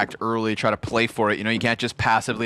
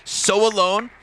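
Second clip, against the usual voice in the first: measured, dramatic caster recap; live play-by-play; 4 semitones higher than usual. Real, not acted. Caster praises Rolf as time expires, dramatic play-by-play. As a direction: stretch the key phrases as the round closes.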